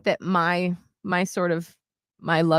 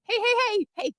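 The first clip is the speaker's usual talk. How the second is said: high urgent little hey hey; high, hushed call to puppy. Retold or imitated. Owner hushing puppy in restaurant, high anxious calls. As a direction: shush the puppy high and quick. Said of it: "I'm like".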